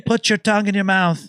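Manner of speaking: high-pitched silly creature; cartoon dinosaur voice. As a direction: join the bit as a little dinosaur. Joins in voicing the cave dinosaurs.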